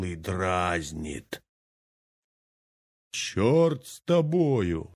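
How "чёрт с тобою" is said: high, slow, drawn-out curse; old man giving up the treasure; exasperated curse. Acted. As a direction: fling the words away in disgust. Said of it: "сказал дед".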